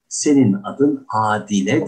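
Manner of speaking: "Adile" repeated the right way as a model; correct Adile. Shown as a demonstration. Teacher repeating the correct name to the student. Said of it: "senin adın Adile değil".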